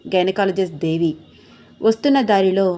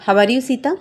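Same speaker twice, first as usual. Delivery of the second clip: smiling greeting; 5 semitones higher, slower than usual. A narrator's reading. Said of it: "నవ్వుతూ పలకరించింది doctor దేవి".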